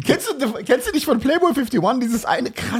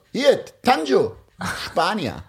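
slow flirty introduction; slower than usual. Retold or imitated. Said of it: "meint er so".

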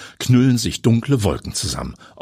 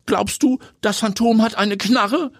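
higher, a hint of startled disbelief; surprised. A narrator's reading. Heidi asks if the stalker has a gun, mildly surprised. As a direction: ask it caught off guard, lightly. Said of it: "fragt Heidi überrascht".

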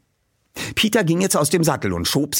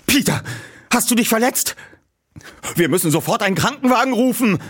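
worried; 11 semitones higher, faster than usual. Acted. Friend worried over Peter.

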